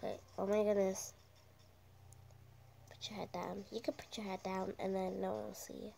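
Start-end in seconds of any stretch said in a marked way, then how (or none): 2.9-5.9 urgent hushed whisper. Real, not acted. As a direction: whisper fast, stay hidden. Telling teammate to hide.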